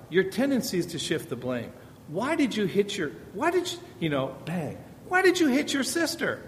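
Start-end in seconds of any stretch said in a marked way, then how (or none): 2.1-6.4 a parent's higher, pointed why, lightly played; mock accusing parent. Parent quizzing a child who hit his sister, mock accusing. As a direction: demand it like a cross parent.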